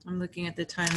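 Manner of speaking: speaking through a yawn. Real, not acted. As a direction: talk while stifling a yawn. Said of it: "I keep yawning".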